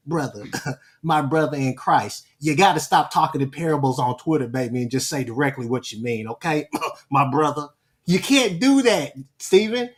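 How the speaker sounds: lightly voiced impression of Stephen, talking down like a pastor. Lightly mimicking Stephen while lecturing him on Twitter. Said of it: "Let me do this in my Stephen voice".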